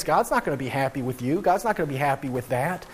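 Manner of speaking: mock the self-righteous warning; judgmental believer. Church member warning a sinner, mock judgmental. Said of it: "we extend limitations of grace".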